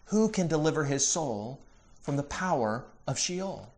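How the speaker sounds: softening, pondering repeat with pauses; reflective. Retold or imitated. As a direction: let the question sink away softly. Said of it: "Stop and think about this".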